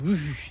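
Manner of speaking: whoosh. Shown as a demonstration. Imitates money vanishing into nothing.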